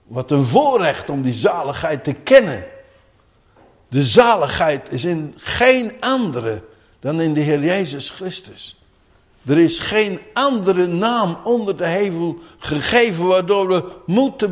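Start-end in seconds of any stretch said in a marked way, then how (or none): none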